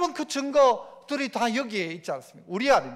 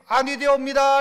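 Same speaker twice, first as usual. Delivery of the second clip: objecting minister; 5 dB louder than usual. Acted. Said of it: "할 수 있을지".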